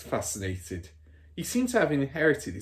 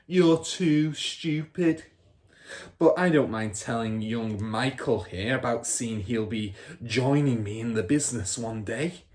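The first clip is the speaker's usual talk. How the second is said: scornful father; 4 dB louder than usual. Acted. Father scorning Matilda and boasting to his son. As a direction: dismiss her, turn proud.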